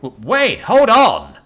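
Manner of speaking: startled protest. Acted. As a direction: blurt it out caught off guard. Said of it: "the giant tried to say".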